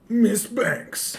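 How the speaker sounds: high-pitched mock call; calling out, imitated. Co-host interrupts as the film does, high mock call. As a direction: call the name in a put-on high voice.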